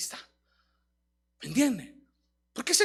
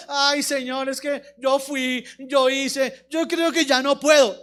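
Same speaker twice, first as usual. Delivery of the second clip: slightly lowered, drawn-out whimper; mock whining; 3 dB louder, slower than usual. Preacher imitating believers who live crying, mock whining. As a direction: drag out the excuses in a mild whine. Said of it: "ahí lloriqueando, diciendo".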